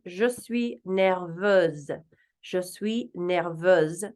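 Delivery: Je suis nerveuse slowly as zhuh swee nairvuhz; slow French. Shown as a demonstration. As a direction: stress the z ending of nerveuse. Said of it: "Or the feminine".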